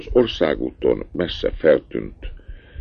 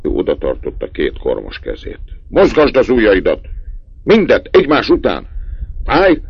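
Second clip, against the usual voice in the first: high, loud sharp orders; father checking his son's hands, loud and stern; 6 semitones higher, 5 dB louder than usual. A narrator's reading. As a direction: bark each command at the boy. Angry father examines son's hands.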